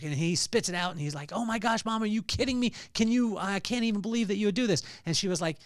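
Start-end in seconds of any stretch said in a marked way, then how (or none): 1.3-4.8 mock outraged kid. Kid outraged at poop cupcake.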